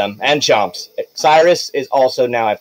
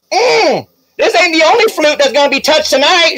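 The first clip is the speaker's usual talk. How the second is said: high, purring seductive voice; sultry singer voice; 12 semitones higher than usual. Acted. GM voicing a singer to the player, sultry and high. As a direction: coo it like a flirty diva. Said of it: "She's like".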